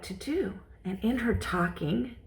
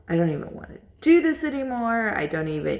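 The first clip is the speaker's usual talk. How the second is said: retold upset outburst; 3 semitones higher, 4 dB louder, faster than usual. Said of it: "just so upset".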